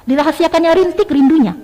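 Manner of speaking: "rintik" given firm weight inside the line; stress on RINTIK. Shown as a demonstration. Teacher demonstrates the poem's key word, emphatic "rintik". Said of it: "kata rintiknya itu ditekan".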